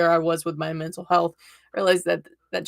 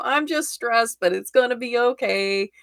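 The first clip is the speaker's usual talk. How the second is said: forced cheerful brush-off; 5 semitones higher than usual. Retold or imitated. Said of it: "put a smile on my face and go".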